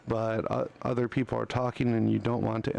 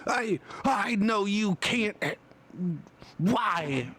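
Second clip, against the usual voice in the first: high, slow golem voice; garbled little creature, hard to understand; 9 semitones higher, slower than usual. Acted. Short golem on the counter confronts a player, menacing golem voice. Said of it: "there's a very short golem".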